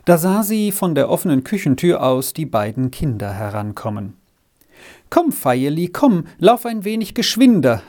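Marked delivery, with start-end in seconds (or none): 5.1-7.8 higher-pitched motherly call to hurry. A narrator's reading. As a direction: call the child over, voice lifted. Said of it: "rief sie ihm entgegen".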